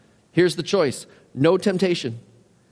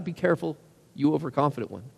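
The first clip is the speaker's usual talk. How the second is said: soft warning; 6 dB quieter, faster than usual. Real, not acted. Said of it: "warning the overconfident".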